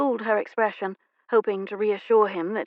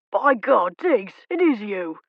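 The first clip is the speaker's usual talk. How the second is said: loud hail; 2 semitones higher, 5 dB louder, slower than usual. Acted. Footman hails friend loudly.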